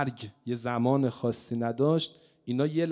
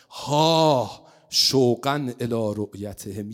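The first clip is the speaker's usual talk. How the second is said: a louder cry of longing, drawing out شوقا; yearning cry; 4 semitones lower, 7 dB louder, slower than usual. Acted. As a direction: let the longing burst out on شوقا.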